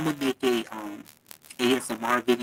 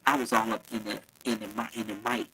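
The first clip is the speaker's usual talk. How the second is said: too close to the mic; muffled by the mic; faster than usual. Real, not acted. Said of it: "That's probably why I was muffled".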